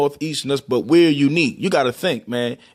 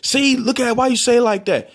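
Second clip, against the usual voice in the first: high-pitched mock teasing; 8 semitones higher than usual. Teaser catching the Baltimore sound, teasing. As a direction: imitate someone pouncing on an accent. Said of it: "Somebody used to always tease me".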